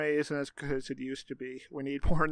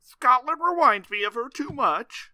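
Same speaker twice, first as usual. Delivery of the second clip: mock Scottish father; 10 semitones higher, 7 dB louder than usual. Voicing the father in accent.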